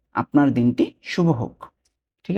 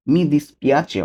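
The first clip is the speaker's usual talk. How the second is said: slow demo; 4 semitones higher, 3 dB louder, much slower than usual. Shown as a demonstration. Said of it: "teacher repeating Italian phrase".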